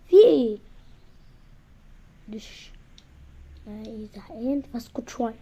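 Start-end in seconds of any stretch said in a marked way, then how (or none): 0.1-0.6 irritated shout. Acted. Quarrel, snapping back.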